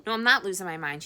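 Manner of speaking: loud, desperate denial; desperate, almost shouting. Acted. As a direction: insist in a panic. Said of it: "she said desperately".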